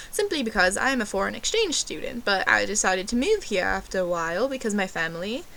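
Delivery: put-on British accent. Fake exchange student explaining to the waiter, mock British accent. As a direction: imitate yourself bluffing on in fake British. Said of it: "ordered my drink in a British accent".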